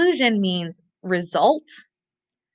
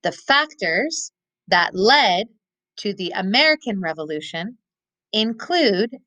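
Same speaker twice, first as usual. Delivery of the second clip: slow modelled answer. Shown as a demonstration. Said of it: "One possible answer is".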